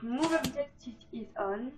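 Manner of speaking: slow, clumsy French-accented English reading out the code; bad English accent. Shown as a demonstration. Gamer reading a Sims cheat code to viewers, in bad English accent. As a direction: spell out the cheat code in rough English, slowly. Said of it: "mon accent en anglais est pourri".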